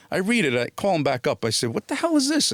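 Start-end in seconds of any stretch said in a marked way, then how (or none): 1.7-2.5 pitched way up in mock outrage, a retold outburst; retold disbelief. Actor phoning his agent about a gangster role, high retold disbelief. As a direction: toss the line up high as if the sides insult you.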